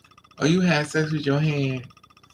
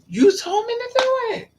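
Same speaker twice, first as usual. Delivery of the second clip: much higher, louder indignant cry; high exasperated squeal; 4 dB louder than usual. Retold or imitated. She protests that he told her to do it. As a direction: squeal it out in disbelief.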